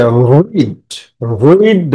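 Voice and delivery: "রিড, read" drawn out with weight on the vowel; stretched, stressed "read". Shown as a demonstration. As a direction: lean slowly on "read". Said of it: "উপরে জোর দিয়ে পড়তে হয়".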